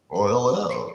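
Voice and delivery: mock professional phone voice; super white work voice. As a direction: put on an overly proper hello. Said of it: "sound super white when he put his work voice on".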